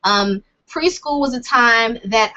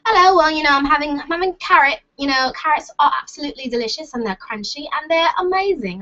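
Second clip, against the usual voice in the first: pitched-up, amateur British accent; 4 semitones higher than usual. Shown as a demonstration. Showing off accents with talk of carrots, British accent. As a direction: put on a chatty British accent. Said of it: "I can do British".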